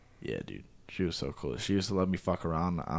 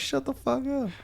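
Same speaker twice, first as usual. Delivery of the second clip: squeaky, high mock disbelief. Reacting to news at the new school, squeaky disbelief. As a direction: squeak it out like you can't believe it. Acting out his own reaction.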